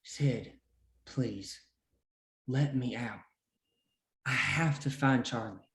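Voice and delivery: soft and low, begging; pleading. Acted. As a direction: beg quietly through the bars. Prisoner begs to be freed.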